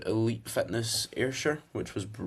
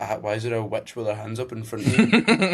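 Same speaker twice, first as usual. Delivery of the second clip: louder mock bafflement, breaking into laughter; retold dad; 4 dB louder than usual. Son quoting dad's reaction to the video, mock-baffled. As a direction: imitate a puzzled dad, louder and amused. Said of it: "My dad was like".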